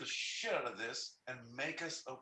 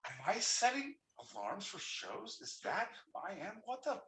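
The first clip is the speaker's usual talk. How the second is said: rising, high and louder at the end; mock self-interrogation; 10 semitones higher, 5 dB louder than usual. Mocking his own alarm habit, rising to a loud outburst. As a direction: question yourself in mock horror. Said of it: "my own little self fucking judgment".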